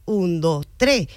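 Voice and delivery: "un, dos" leading into a stressed, held "tres". Shown as a demonstration. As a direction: count up to an accented "tres". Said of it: "y está el acento".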